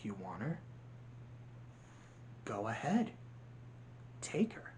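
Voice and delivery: villain daring the hero; low quiet dare. Retold or imitated. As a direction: offer it coldly. Hopper daring Flick.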